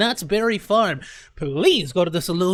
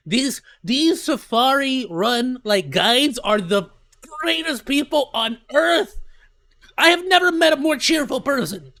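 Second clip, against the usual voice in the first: excited; 5 semitones higher, 4 dB louder, slower than usual. Real, not acted. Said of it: "I love 'em".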